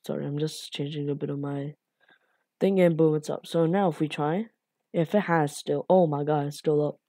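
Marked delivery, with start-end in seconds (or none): none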